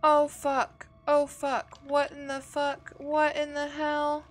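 loud shocked cursing; shocked swearing. Real, not acted. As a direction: blurt it out, shaken by the scare. Jump scare in horror game.

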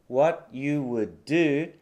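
"What you would do" said slowly, no T in "What"; dropped T. Shown as a demonstration. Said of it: "の前のTが落ちて".

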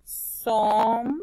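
sombrero very slowly, som held long, gaps between syllables. Shown as a demonstration. Teacher writing the word, sombrero in slow separate syllables. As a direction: stretch sombrero out as som, bre, ro.

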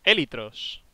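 "Élitros" with the accent clearly on the first syllable, É-litros; stress on the first E. Shown as a demonstration. Teaching his friend the item name, stresses "Élitros" on the É. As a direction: lean on the É of "Élitros". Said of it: "llevan acento en la E".

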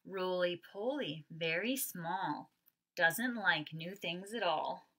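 slow, rhythmic read-aloud; picture book reading. Acted. Teacher reading the picture book refrain to kindergarteners.

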